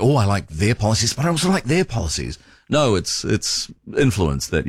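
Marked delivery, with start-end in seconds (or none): 0.0-2.4 airy, fast mock of a two-faced donor. Radio host mimicking a donor who funds every party, mock voice. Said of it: "you're like".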